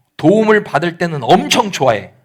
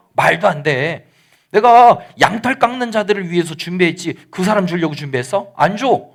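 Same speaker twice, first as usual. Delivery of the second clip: acted-out scornful rebuff, rising questions; indignant refusal. Nabal turning away David's men, indignantly dismissive. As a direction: refuse them as if the request were absurd. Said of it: "나발이 이렇게도 말했어요".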